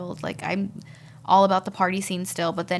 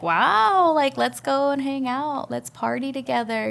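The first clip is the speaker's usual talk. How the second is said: bright high rush of excitement; retelling an eager, raised call to go party; excited invitation; 5 semitones higher than usual. Retold or imitated. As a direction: sell the fun to a friend. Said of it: "I was like".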